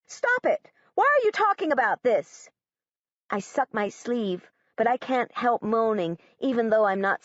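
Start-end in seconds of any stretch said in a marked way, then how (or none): 0.1-2.5 distressed cry. Acted. Girl pleads in distress.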